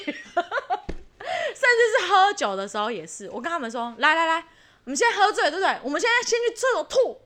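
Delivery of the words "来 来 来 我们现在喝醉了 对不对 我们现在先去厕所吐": mock rallying call. Urging friends to go vomit.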